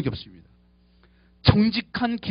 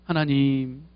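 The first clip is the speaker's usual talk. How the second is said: insincere prayer; 5 semitones lower, 5 dB quieter, slower than usual. Shown as a demonstration. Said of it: "이런 ... 그거 하지 마세요".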